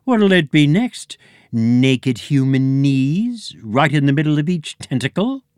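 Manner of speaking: indignant squid creature. A narrator's reading. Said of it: "with a squid voice".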